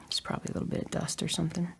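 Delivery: fast whispered aside. Real, not acted. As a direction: rush it out in a whisper. Quick aside after coughing.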